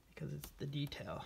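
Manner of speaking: breath held, hushed and tight; holding breath. Real, not acted. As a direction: speak through a held breath. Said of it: "you can hear me, I'm holding my breath".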